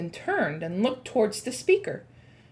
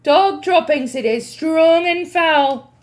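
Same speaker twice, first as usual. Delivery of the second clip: disgusted witch; 5 semitones higher, 9 dB louder than usual. Acted.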